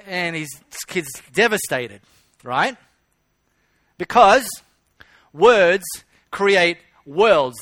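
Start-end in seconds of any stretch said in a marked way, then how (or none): 4.0-7.6 louder, punched words; emphatic motto. Acted. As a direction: drive the motto home. Preacher returns to motto emphatically.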